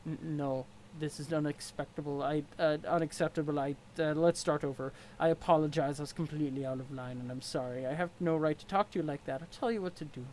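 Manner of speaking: stiff, formal troll sneering at his rival; a lightly voiced haughty troll. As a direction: look down your nose at him. Equius troll voice.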